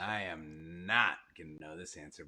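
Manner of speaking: low, soft admission of defeat; deflated and quiet; resigned. Real, not acted. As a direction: drop the voice, giving up on it. Host stumped by trivia question.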